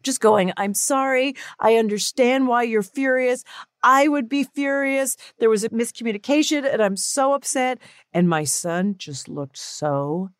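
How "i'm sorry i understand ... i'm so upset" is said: higher-pitched mock-tearful apology; retold weepy apology; imitated bawling. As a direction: plead as if bawling, half acted. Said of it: "I was bawling".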